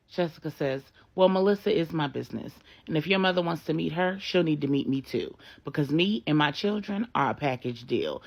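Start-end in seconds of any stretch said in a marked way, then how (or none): 1.1-8.2 loud, fast defiant terms. Acted. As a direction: lay down the law, loud. Jessica lays down terms.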